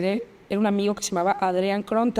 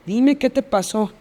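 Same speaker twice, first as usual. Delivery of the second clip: slow, measured retold insistence; insistent pleading; slower than usual. Worried friend begging for an answer, slowly insistent. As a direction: repeat the request slowly and firmly. Friend presses her for truth.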